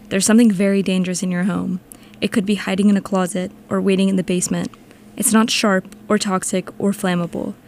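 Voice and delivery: a hint of a goofy voice-actor read. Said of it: "let me do the P S A in a voice actor voice".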